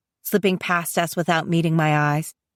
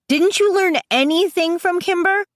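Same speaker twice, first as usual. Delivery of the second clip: mild scream; 11 semitones higher than usual. A narrator's reading. Sister rowing with her brother, mild high scream. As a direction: scold him in a raised, incredulous pitch. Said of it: "I start screaming at him again".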